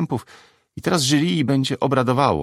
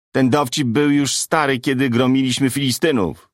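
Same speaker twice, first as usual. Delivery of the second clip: mild shouted heckle, pitched up; half-raised, higher shout; 3 semitones higher than usual. Acted. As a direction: heckle the comic from below the stage. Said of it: "krzyknął drugi spod samej sceny".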